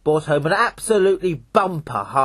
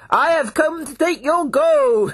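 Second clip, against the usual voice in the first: lightly voiced fourteen; 11 semitones higher, 3 dB louder than usual. Fourteen answers the devils.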